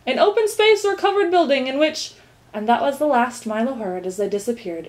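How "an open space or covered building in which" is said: high, formal dictionary definition; reciting. A narrator's reading. Duke defines market as he leaves, reciting. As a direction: reel off the definition. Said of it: "recited the duke".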